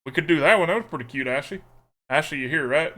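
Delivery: playful put-on southern twang; southern accent. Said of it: "Making me pick a sleeve in the accent's".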